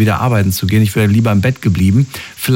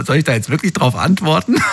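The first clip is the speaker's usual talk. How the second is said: laughing; 4 semitones higher than usual. Real, not acted. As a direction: chuckle the question as if the idea is absurd. Amused at American small talk. (lachend gefragt, leicht amüsiert)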